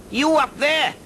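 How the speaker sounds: high, loud sing-song dragon; lilting dragon voice. Acted. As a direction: boom it up lilting and Welsh. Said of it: "lilting sing-song voice, high-pitched".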